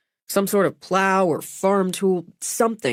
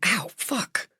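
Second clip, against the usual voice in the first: higher, softer yelp of pain; 6 semitones higher, 5 dB quieter than usual. Acted. Wound being cleaned, patient yelps.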